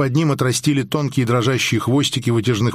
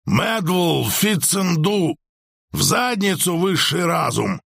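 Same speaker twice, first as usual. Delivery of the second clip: yelling; 5 semitones higher, slower than usual. A narrator's reading. Alien yelling while sliding off.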